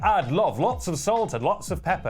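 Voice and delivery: imitating an overkeen customer; hammed-up customer keenness; very enthusiastic. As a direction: relish every word, mock-eager. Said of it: "he's very enthusiastic".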